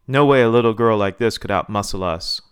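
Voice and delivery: loud, indignant dismissal; angry scorn. A narrator's reading. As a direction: push it out loudly with a touch of fury. Seething Virgil keeps challenging Hannah.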